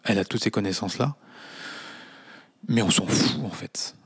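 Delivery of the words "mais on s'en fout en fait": breathy brush-off; dismissive whisper. Acted. Host brushing off Amélie's diplomas, whispered. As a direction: toss it away under your breath.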